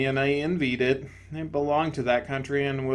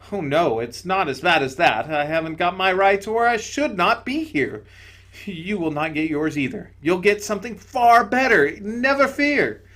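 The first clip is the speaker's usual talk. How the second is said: higher, gentle spirit voice; serene bright spirit; 5 semitones higher, 6 dB louder than usual. Acted. Bright spirit to the ghost, higher and gentle. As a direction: soothe him from above.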